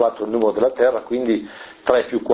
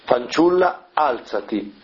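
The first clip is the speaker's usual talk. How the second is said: crying out; slower than usual. Retold or imitated. Preacher voicing Jesus calling the dead girl, raised call. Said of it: "Gesù grida ad alta voce".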